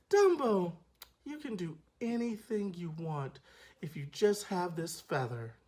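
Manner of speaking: soft, sincere read; coaching delivery. Shown as a demonstration. Showing the child actors how to read the line, soft and sincere. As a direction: say it like you mean it. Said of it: "here's how you deliver your line".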